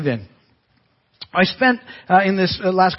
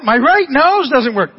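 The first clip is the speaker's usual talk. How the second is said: put-on teary little boy voice, slow and louder; crying child; 6 semitones higher, 6 dB louder, slower than usual. Grandson repeating his complaint to grandpa, teary. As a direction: repeat it like an upset small boy.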